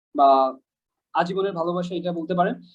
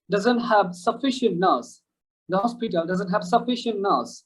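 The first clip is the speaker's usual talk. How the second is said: "sufficient" and "nurse" drawn out very slowly, British vowels; slow British demo; much slower than usual. Shown as a demonstration. Teacher slowly models a British sentence. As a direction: spell the sentence out slowly for learners. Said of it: "আমি আপনাদেরকে একটা accent শেখাচ্ছি".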